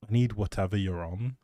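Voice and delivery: ordinary delivery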